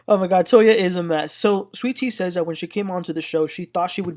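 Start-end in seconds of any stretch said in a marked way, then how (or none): 0.1-1.3 laughing. Real, not acted. Laughing at Toya's answer.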